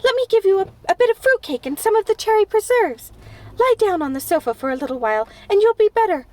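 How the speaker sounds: high, loud, anxious begging; imploring. A narrator's reading. Anne imploring her sick friend Diana to stay, high and anxious. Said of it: "implored Anne".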